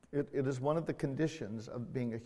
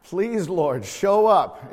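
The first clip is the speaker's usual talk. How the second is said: loud, high pleading cry to the Lord; a preacher's mock-desperate cry to God; desperate plea; 4 semitones higher, 10 dB louder, much slower than usual. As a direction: beg the Lord to show up, voice climbing. Acted desperate prayer before preaching.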